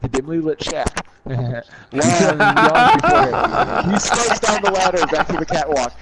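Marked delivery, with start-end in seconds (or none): 1.1-5.9 reading through giggles; can't keep a straight face; laughing. Real, not acted. Narrator cracking up mid-read.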